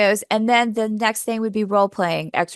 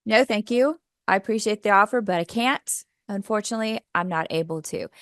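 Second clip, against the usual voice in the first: polite refusal. Shown as a demonstration. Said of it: "a real simple way of just saying".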